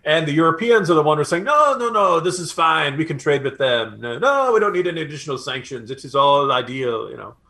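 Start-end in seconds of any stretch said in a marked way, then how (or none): 1.4-7.1 bad French accent. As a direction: do a half-hearted, badly faked French accent. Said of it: "That's my very bad French accent there".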